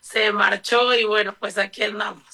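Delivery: real hoarseness from shouting; husky voice after a day of shouting at a march; hoarse. Real, not acted. Activist greets interviewer after yesterday's march, hoarse. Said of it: "Disculpen de antemano la ronquera".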